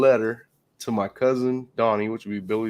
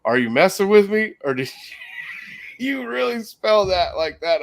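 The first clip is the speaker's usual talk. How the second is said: retold laughing teacher; 8 semitones higher than usual. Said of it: "And he goes".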